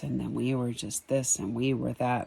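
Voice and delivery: low-key imitation of a droning grandpa; lightly mimicked monotone reminiscing; monotone storyteller. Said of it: "in a very monotone voice".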